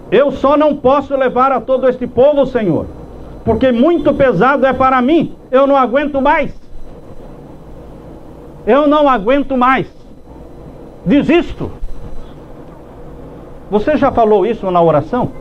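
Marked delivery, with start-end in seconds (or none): 0.1-11.7 higher-pitched plea of exhaustion; overburdened leader crying out to God; desperate plea. Acted. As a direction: plead with God like a man at his limit. Acts out Moses' desperate prayer.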